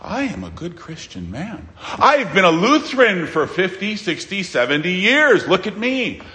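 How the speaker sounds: mock self-important boasting; a put-on show of piety; pretentious. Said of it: "putting on some pretension, some pretentiousness".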